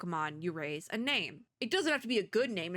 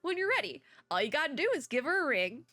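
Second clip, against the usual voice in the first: bad Southern accent; 5 semitones higher than usual. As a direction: read it as a folksy Southerner, badly. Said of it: "the really bad Southern accent".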